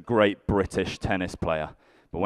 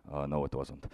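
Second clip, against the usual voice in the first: low, soft, unruffled reply; very calm; 6 semitones lower, 9 dB quieter than usual. Retold or imitated. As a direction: imitate a calm officer, lower and softer. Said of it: "they very calmly, like".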